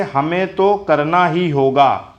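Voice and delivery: slow, measured tune on हमें तो करना ही होगा; demonstrated intonation. Shown as a demonstration. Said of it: "यहाँ पर ये अनुतान है". (करना ही होगा पर धीमा अनुतान)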